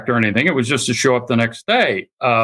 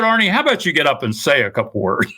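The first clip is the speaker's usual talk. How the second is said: eager coaxing; 2 semitones higher, faster than usual. Retold or imitated. Coaxing Arnie to speak at dinner, eager quick push. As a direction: chivvy him to get up and talk, a bit fast.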